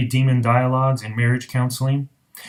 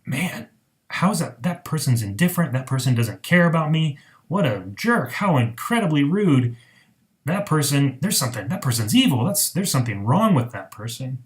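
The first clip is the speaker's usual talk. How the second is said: mild mock indignation; 2 semitones higher than usual. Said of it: "we think".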